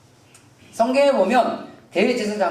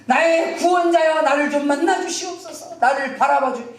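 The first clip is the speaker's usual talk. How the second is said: pleading call, building higher in pitch; crying out; 5 semitones higher than usual. Acted. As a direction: implore a saviour to notice you. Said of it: "이 마음으로 막 외칩니다".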